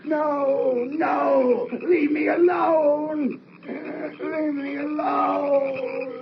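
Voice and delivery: crying and shouting, leave me alone, slow; sobbing terrified plea. Acted. Father at the gate, sobbing in terror at the ghost. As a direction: beg the thing to go away through sobs.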